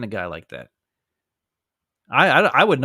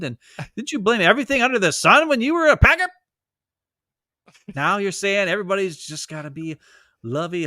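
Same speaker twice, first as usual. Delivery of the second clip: mock him with scornful incredulity; sneering sarcastic comeback; sarcastic disbelief; 3 semitones higher than usual. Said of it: "And I'm like".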